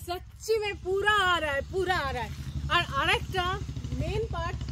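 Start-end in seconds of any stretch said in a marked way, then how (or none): 0.0-1.6 loud call. Shown as a demonstration. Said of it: "জোরে চিৎকার করা হয় বা সিটি মারা হয়, পুরো ব্যাপারটা ইকো হচ্ছে". 1.7-2.3 distant echo coming back; faint echo off the hills. Real, not acted. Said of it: "পুরো ব্যাপারটা ইকো হচ্ছে".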